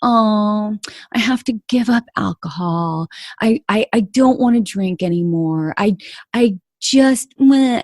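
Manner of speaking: mopey, half-hearted whimper of surrender; wimpy past self. Retold or imitated. Past self moaning about giving up alcohol, mock wimpy whine. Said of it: "It was kind of, like, wimpy".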